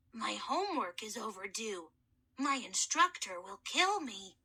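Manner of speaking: put-on a boy's voice unused for millennia; gentle, courteous mummy soothing a scared boy; hoarse mummy kid. Mummy voice held.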